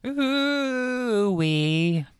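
high wavering ghostly ooh. Pretend. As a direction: warble it like a spooky ghost. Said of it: "That was pitchy".

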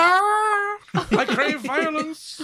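high, loud, drawn-out shout; yelling back. Acted. Child answering parent's call, yelling wildly. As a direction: holler it with long, hammed-up vowels.

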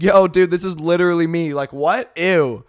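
loud, mocking valley-girl squeal. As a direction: ham it up as the silly girl. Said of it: "and said".

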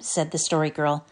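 ordinary delivery, nothing marked

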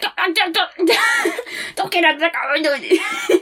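mock pleading. Pleading with character, laughing.

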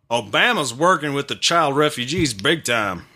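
shaky attempt at a Southern accent. Podcaster reading a quote to co-hosts, attempted Southern accent.

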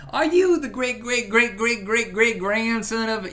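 lightly voiced Southern father quizzing the boyfriend; drawling Southern father. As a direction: grill the boyfriend like a suspicious dad. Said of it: "He goes".

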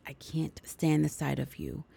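grandmother's bitter whisper. Retold or imitated. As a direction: whisper it with contempt. Grandmother's bitter words to Sarah.

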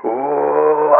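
long, drawn-out crowd ooh; imitated crowd "oh". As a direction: mimic a crowd reacting as lights go out. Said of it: "people go".

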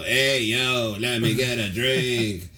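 put-on slow, slurred drunk uncle rap. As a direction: slur it like a tipsy uncle. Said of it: "so my drunk uncle".

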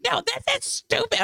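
very high, slow mock protest; retold loud protest. Tipsy woman retells arguing with Greg, mock loud protest. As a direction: re-enact tipsy outrage without raising the volume. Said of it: "I'm, like, being super loud about".

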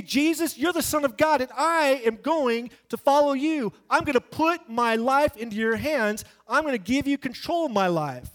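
earnest pledge, voice lifted high; a fervent vow of surrender; sincere prayer. Retold or imitated. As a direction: pledge your life to Jesus with conviction. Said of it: "It is that you say".

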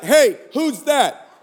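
drawn-out suspicious question; slowly challenge, lightly imitating a wife; lightly voiced wife. Wife questioning giggling husband in bed, mildly suspicious. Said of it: "my wife is like".

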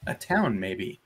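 measured game master's read-aloud; story narration. A narrator's reading. Game master reads the ruins excerpt to players, story narration. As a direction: narrate the scene with clear storytelling phrasing.

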